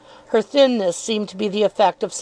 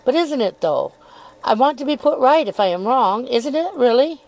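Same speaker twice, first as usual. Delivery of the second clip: lightly raised, coyly probing voice; insinuating Miss Dartle; 4 semitones higher than usual. Acted. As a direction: feign innocence while needling.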